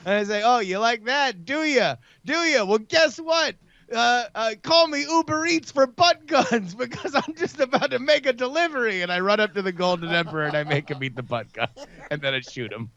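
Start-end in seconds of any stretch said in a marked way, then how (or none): 0.4-9.0 higher, cocky action-hero taunt; gloating one-liner. Acted. Shooter taunting the Emperor, cocky gloat. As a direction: rub it in his face.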